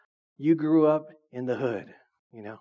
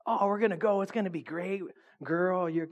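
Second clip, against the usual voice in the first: playfully gushing, higher-pitched; hype gal; 4 semitones higher than usual. Acted. Hype gal calls a girlfriend about plans, excited. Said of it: "the big hype man or hype gal".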